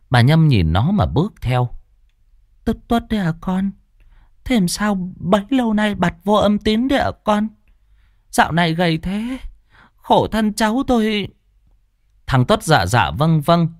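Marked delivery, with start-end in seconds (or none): 2.6-11.3 put-on fond old aunt. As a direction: greet the lost nephew tenderly. Aunt greeting nephew. (giọng bà trìu mến)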